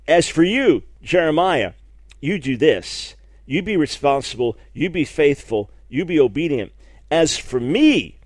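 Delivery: "you" and "me" punched in short, firm phrases; emphatic. Acted. God setting out the prophet's responsibility, emphatic. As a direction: lean hard on each pronoun, contrasting the two. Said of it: "the Hebrew is very emphatic".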